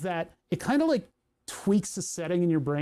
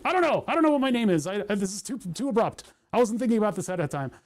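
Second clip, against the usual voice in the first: deer in the headlights; 3 semitones higher, faster than usual. Retold or imitated. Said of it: "'Cause it's deer in the headlights".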